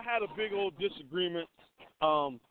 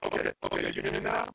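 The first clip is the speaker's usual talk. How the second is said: muffled phone audio. Real, not acted. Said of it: "You must have put your headphones on or something".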